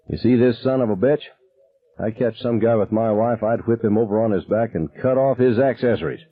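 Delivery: lightly voiced drunken father bragging; drunk dad boasting. Drunk dad showing off his knife to buddies, boastful. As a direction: swagger a little as the armed drunk.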